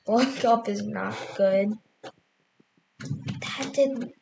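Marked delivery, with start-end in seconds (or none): 0.1-1.7 laughing it off; relieved laughter. Real, not acted. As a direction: chuckle through the words. Laughing after scare.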